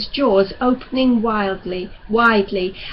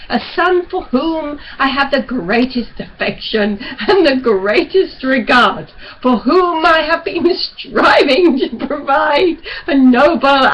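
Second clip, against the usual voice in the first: a fervent, louder father figure; father urging his son with rising force; stern father, pleading; 4 dB louder than usual. Acted. Father insisting to his reluctant son, louder and fervent.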